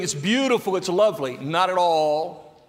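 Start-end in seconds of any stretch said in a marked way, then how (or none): 0.0-0.8 high, loud sarcastic gush; mock praise. Sarcastic: no one would call his state this, gushing. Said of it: "No way would we ever say". 0.8-1.4 high, loud, fast gushing; mock gushing praise. Mocking what nobody would say about unwashed mourning, high and loud. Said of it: "No way would we ever say".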